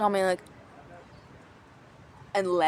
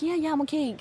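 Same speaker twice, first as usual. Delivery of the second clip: polite reassurance; 7 semitones higher than usual. Retold or imitated. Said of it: "very politely".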